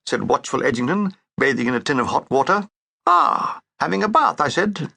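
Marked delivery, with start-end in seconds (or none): 3.1-4.4 surprised ah. Acted. Surprised remark.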